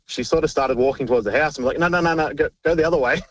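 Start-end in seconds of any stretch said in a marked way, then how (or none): 1.8-3.2 higher-pitched, mildly urgent steering; retold urgent redirection. Firefighter retells steering neighbour from the house, mildly urgent. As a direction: imitate hurriedly turning someone back.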